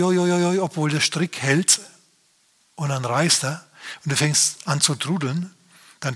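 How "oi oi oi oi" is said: worried oi. Retold or imitated. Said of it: "und dir denkst, oi".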